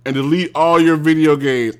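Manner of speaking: worked-up, insistent tirade; irritated rant. Real, not acted. Angry rant dismissing video games.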